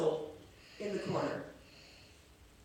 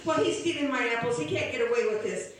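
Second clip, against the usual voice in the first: indignant; 6 dB louder, faster than usual. Acted. Old woman defends herself angrily.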